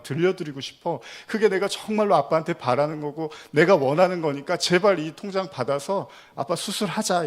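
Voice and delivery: retold tearful pleading. Daughter begs deaf father to have surgery, retold tearful plea. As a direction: act out a daughter begging, welling up. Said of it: "북받쳐서 막 눈물을 흘리면서".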